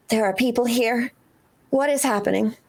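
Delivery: understated hushed aside; quiet, embarrassed. Acted. Megumi to Noemi with people watching, quiet and embarrassed. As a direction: say it quietly, slipping toward a whisper. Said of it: "like, quietly going".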